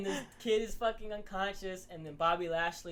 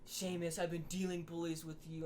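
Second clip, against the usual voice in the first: lazy promo parody. Retold or imitated. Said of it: "wrestlers who just get lazy".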